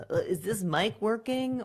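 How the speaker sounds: sheepish mock mic check; awkward mic check. Speaker opening with a technical question, lightly imitated. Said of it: "don't throw it away with something technical".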